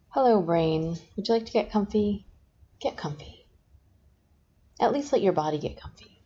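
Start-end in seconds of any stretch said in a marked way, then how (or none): 2.8-3.4 whisper. Shown as a demonstration. Hypnotist repeats get comfy.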